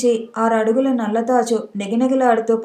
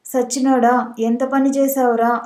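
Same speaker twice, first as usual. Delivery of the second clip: usual speaking voice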